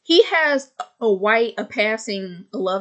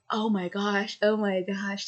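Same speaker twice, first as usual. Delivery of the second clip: awed hush; 5 dB quieter than usual. Retold or imitated. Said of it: "just like".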